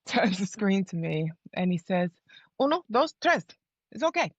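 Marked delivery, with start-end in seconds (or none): 2.6-4.3 breezy doctor. Retold or imitated. Doctor counting babies offhandedly.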